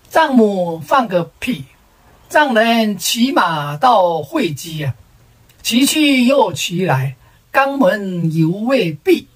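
slow, measured reciting of doggerel; mock verse recitation. Barely read third son-in-law offers his crude verse, slow recitation. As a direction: intone it line by line like a poem.

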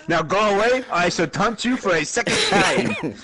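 mock French taunt with laughter creeping in; hammed-up haughty French accent; outrageous French accent. Player taunting an opponent, outrageous French accent. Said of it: "speak to him in this outrageous accent".

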